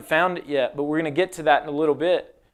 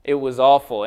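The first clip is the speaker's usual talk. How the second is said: low, deflated disappointment; dejected; 4 semitones lower than usual. Acted. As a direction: sag like the interview went badly. Acted failed job interview reply.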